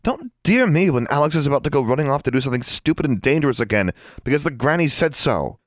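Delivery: high, heated rush of protest; angry retort. A narrator's reading. Anna rebuffing friend's attempt to calm her, angry. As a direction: snap back at the soothing, pitched high.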